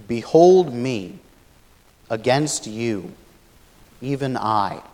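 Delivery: slow, grave and weighty; somber. Shown as a demonstration. Teacher reading the emphatic Hebrew rendering, slow and somber. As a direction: intone it like a solemn verdict. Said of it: "It's a bit more somber sounding when we put it that way".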